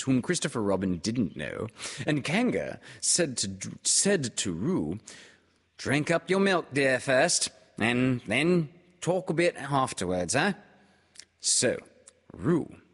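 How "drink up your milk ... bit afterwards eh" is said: higher, louder motherly voice; a mother coaxing her child; Kanga's voice. A narrator's reading. Kanga speaks to Roo.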